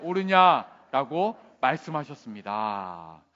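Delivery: slow, measured Bible reading; scripture reading. Acted. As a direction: read the verse out deliberately. Reads scripture aloud. (또박또박 천천히 성경 봉독)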